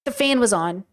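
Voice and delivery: low, understated irritated repeat; annoyed. Acted. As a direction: repeat the complaint in a low grumble. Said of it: "why are you so annoyed".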